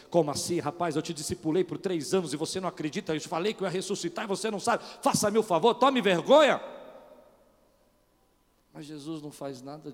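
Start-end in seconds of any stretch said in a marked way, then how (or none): 0.1-6.6 loud, rising indignant rebuke building to a shout; harsh pastor rebuke, faster and louder to the end; scolding super pastor. Retold or imitated. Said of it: "um super pastor, ele olhar e falar assim".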